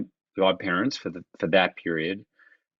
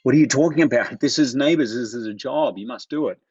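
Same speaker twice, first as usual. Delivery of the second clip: imitating an insistent agent; mock agent begging him to take the job; pleading agent; 3 semitones higher than usual. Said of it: "who was begging me, like, going".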